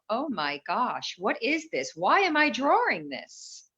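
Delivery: rising to a high alarmed question; shocked disbelief. Retold or imitated. Recalling her own horrifying drawing, rising alarm. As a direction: voice climbs in retold horror. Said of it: "I thought".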